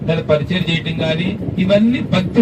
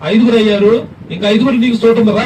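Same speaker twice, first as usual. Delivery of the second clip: calling out; 3 dB louder than usual. Pretend. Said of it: "అని నువ్వు పిలవగలవు".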